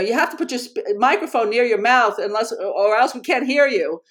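half-yell it as an impatient classmate's call; mild retold yell. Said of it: "someone sort of yells at him".

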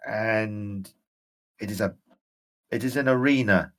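a ghost seeing his dark prison again; ghostly general, rising urgency. Acted. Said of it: "and he shakes his head".

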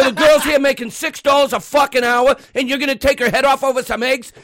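high, incredulous retold rant; pissed off. Bystander defending cashier to customer, pissed off. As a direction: re-enact telling off a rude stranger. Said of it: "Now, I'm getting pissed off".

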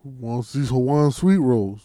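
put-on low smooth African American accent pickup line. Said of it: "That's my black voice".

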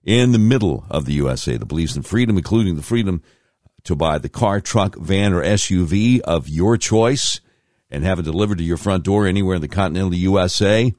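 upbeat sponsor read, announcer voice; radio ad read. Acted. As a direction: sell it like a radio spot.

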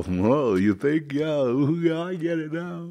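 lightly mock the knowing nod of an outsider; half-hearted impression of a clueless partygoer; mocking a worlder. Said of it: "try to be like a worlder".

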